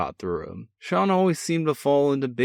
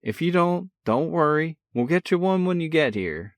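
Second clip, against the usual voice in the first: a cocky big brother, full of energy; brash older brother; 7 semitones higher than usual. A narrator's reading. Older brother teasing on the phone, brash and cheerful. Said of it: "Sean's voice carried on excitedly".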